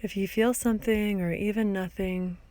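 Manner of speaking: calm guiding voice with long pauses; guided meditation. Acted. Teacher guiding listeners through a body scan, calm meditation voice. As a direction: gently lead a body scan, leaving space between phrases.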